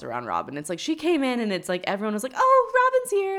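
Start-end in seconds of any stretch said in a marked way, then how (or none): 2.3-3.4 much higher, slow, gushing mock welcome; mock fawning delight. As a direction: sing it out like the guest of honour just walked in. Mocking everyone fawning over Robin.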